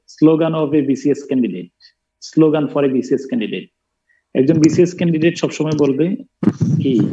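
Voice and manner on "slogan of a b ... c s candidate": slowly, word by word; slow dictation. Shown as a demonstration. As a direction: dictate it for students to write down. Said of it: "লেখো খাতার উপরে".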